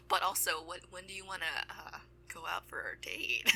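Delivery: gasp, then soft, halting invitation; hushed, breathless play-acted nerves; mock panicked. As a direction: imitate a flustered suitor catching his breath. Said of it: "like, clearly panicking".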